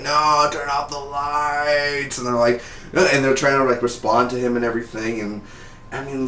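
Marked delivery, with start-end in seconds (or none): 0.0-2.2 slow, strained sick-man plea; pained plea. Retold or imitated. Chuck in the hospital begging them to kill the lights, slow and strained. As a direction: drag the words out like a man in pain. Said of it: "He's like".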